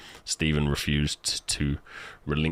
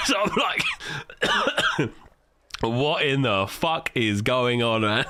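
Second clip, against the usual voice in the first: incredulous; 6 semitones higher, much slower than usual. Retold or imitated. Retold disbelief.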